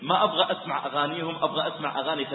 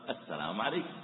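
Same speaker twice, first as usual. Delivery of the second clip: gentle greeting; 8 semitones lower, 10 dB quieter than usual. Shown as a demonstration. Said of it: "أنت أثرت هذا الأسلوب".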